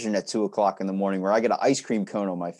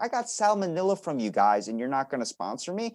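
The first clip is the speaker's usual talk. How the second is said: indignant complaint; 5 semitones higher than usual. Retold or imitated. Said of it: "And I was like".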